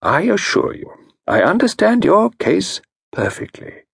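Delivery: gently grave consultant; grave reassurance. Acted. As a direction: reassure her. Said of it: "nodded gravely".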